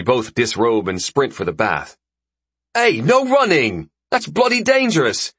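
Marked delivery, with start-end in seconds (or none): 2.7-5.3 high, alarmed scolding shout; raised, indignant telling-off; shouted warning. Acted. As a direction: yell a warning to runners by the pool. Friend yells warning at racing swimmers.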